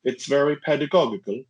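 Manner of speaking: lightly imitated Swedish accent, measured pace; careful English with a hint of Swedish; Swedish friend. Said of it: "a friend of mine from Sweden".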